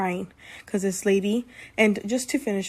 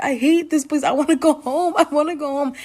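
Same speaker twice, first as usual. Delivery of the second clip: imitating crying whine; 7 semitones higher, 4 dB louder than usual. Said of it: "I was literally bawling my eyes out".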